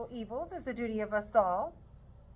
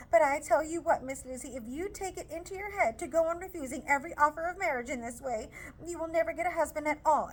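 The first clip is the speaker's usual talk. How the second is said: higher, louder, indignant scolding; scolding mother; 6 semitones higher, 4 dB louder than usual. Acted. Mrs Bennet scolding Lizzie for refusing, loud indignant scold. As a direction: scold the daughter hard.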